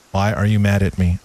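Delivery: low, level mock question; deadpan partner's reply. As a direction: ask it with no feeling, acting a couple's quarrel. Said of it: "in the relationships I was in".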